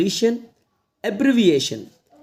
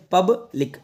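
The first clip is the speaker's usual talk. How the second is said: पब्लिक split as "pub - lik"; broken into syllables; 3 semitones higher, slower than usual. Shown as a demonstration. Teacher showing learners how पब्लिक is read, in two parts. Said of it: "इसको पढ़ते हैं".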